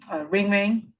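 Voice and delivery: sing-song ring ring; mock phone ring. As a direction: play the ringing phone. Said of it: "What was your opening line".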